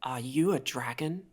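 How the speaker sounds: halting, careful question; slow, awed question. Acted. Kobold looking up wide-eyed at the glowing stranger, slowly. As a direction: ask it slowly, word by word. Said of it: "and he slowly says".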